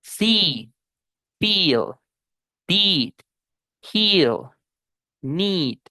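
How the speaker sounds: "See, feel, heal, need" with a stretched smiling I; double E as long I. Shown as a demonstration. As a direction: grin through each double E. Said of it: "pronunciar comúnmente como I". ("see, feel" con I larga y sonrisa)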